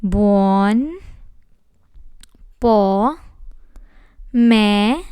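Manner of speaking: "Buon, po, me" each said apart with a pause; syllable by syllable. Shown as a demonstration. Teacher breaks buon pomeriggio into syllables, slow and separated. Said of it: "This word has five syllables".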